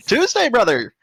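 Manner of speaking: loud laughing bro voice; silly bro shout. Acted.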